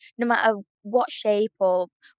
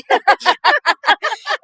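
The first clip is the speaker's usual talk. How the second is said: goat bleat; 12 semitones higher, 10 dB louder than usual. Pretend. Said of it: "I could do it better".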